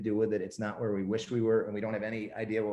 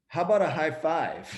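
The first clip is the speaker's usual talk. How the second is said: high, sincere imitation of sister; imitating a totally serious sister; earnest counter-offer; 7 semitones higher, 3 dB louder than usual. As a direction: offer it brightly in earnest, pitched up. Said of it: "So she was totally serious".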